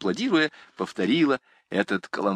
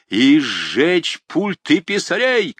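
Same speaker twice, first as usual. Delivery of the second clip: eager shout; 7 semitones higher, 5 dB louder, slower than usual. A narrator's reading. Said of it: "крикнул его сосед".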